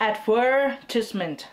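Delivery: "advertisement" slowly, ad-VER-tis-ment; slow, careful "advertisement" with weight on VER; British stress on VER. Shown as a demonstration. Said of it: "คนอังกฤษคือไป straight ที่คำว่า".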